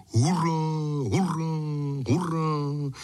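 high hurá hurá hurá, cheered; cheering crowd. A narrator's reading. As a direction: cheer like a crowd of chimney sweeps. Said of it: "zvolal kominický spolek".

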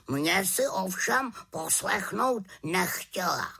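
put-on a huffy old bird who prefers the warm room; grumpy raven. Raven chides witch.

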